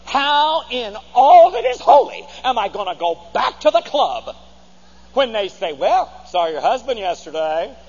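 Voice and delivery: a hint of the scandalised wife, building; indignant wife. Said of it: "she's saying to herself".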